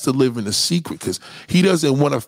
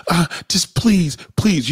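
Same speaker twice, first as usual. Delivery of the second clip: drawn-out, slightly raised plea; begging; 3 semitones higher, slower than usual. Acted. Prostitute begging a man in the car, pleading. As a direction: plead slowly, stretching the word please. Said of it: "She's begging you".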